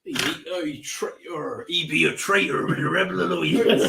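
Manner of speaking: hammed-up pirate farmer voice, laughing; mock yokel pirate snarl. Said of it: "West Yorkshire pirate farmer".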